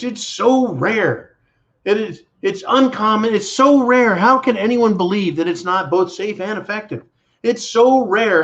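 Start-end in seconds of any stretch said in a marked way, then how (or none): 0.0-3.3 mock official. Mocking official line. 3.3-5.0 high, loud mocking singsong; sarcastic high singsong; mocking sing-song. Mocking official line. 7.4-8.4 sarcastic high singsong; mocking sing-song. Mocking official line.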